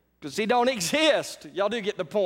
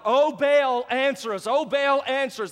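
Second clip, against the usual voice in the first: mild mock scream to Baal, higher; 4 semitones higher than usual. Preacher mimics prophets screaming to Baal, mild mock cry. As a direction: call out desperately, a bit higher. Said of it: "they began to scream out louder".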